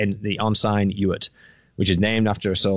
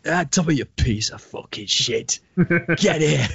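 mock northern greeting; 6 semitones higher than usual. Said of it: "It's like".

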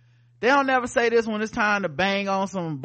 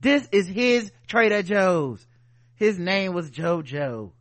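put-on drunken posh sneer; 2 semitones higher, 7 dB louder than usual. Entitled white person voiced.

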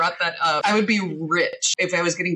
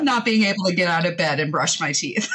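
much higher, hammed-up fake delight with laughter; sarcastic cheer; 9 semitones higher than usual. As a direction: oversell the joy to mock it. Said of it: "where they're like".

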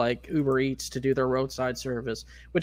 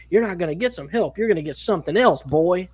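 retold menace, slightly raised; threatening; 4 semitones higher, 5 dB louder than usual. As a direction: warn him as the imitated redneck. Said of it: "the dude started threatening him".

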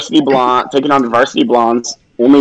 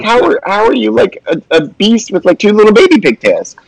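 higher, amused incredulous question; mock disbelief; 8 semitones higher than usual. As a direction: poke fun at a beast with baby pigtails. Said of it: "I'm like".

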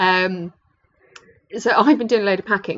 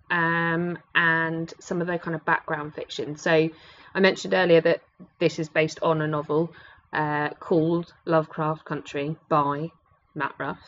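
podcast voice. Pretend. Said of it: "Don't know why I'm talking like that".

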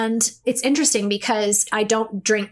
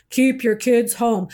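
slow, solemn decree from above; mock voice from heaven. Mother pleading for guidance, slow mock heavenly decree. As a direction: hand down the answer like a heavenly voice, slowly. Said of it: "a voice from the heavens above come down and say".

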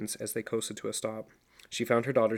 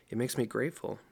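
sober; faster than usual. Acted. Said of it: "Dawn replied soberly".

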